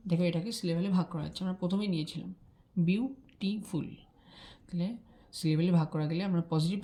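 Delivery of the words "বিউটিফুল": বিউটিফুল stretched out slowly, each syllable drawn long. Shown as a demonstration. Teacher drawing out বিউটিফুল for students, slow. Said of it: "teacher repeats word slowly".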